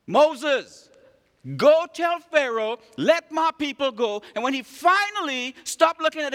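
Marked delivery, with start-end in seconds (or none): 0.1-4.2 God's command. Acted. God commanding Moses again.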